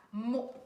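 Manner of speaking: MO pronounced alone as one clear syllable; syllable sounded out. Shown as a demonstration. Teacher showing pupils the first syllable of morue, MO sounded out. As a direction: say MO by itself, firmly and distinctly. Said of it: "je prononce la première syllabe".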